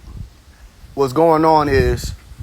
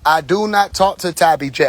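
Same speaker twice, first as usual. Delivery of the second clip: lightly imitated speaker, stressing "do not"; "I do not talk" said as a pointed, imitated quote; imitated deliberate emphasis. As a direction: quote him with weight on "not". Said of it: "He'll put emphasis on different parts of different words".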